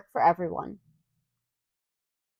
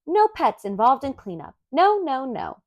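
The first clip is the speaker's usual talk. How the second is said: scolding mother; 4 semitones higher than usual. Acted. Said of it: "She shook her finger and said".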